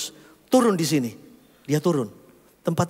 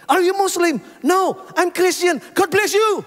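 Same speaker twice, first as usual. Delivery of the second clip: loud high exchange; 12 semitones higher, 4 dB louder than usual. Retold or imitated. Stranger asks, pastor answers boldly.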